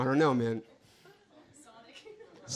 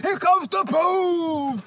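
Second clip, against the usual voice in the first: laughing; 5 semitones higher, 5 dB louder, much slower than usual. Real, not acted. Laughing fit at the scare cannon.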